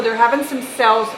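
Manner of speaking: talking over a running vacuum; vacuum cleaner. Real, not acted. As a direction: speak over vacuum noise. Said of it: "Forgive my vacuum".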